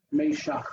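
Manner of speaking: Meshach with first syllable "may"; Hebrew pronunciation. Shown as a demonstration. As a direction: model Meshach as may-SHAKH for the student. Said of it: "So the first one is me".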